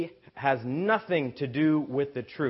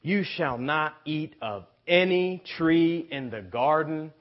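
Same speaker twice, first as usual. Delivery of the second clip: mild mock serpent; 2 semitones higher, 5 dB louder than usual. Shown as a demonstration. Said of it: "And notice this".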